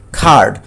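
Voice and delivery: খার্ড with a long ar sound; teacher demonstrating the long vowel in card. Shown as a demonstration. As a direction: draw out খার্ড. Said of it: "long sound".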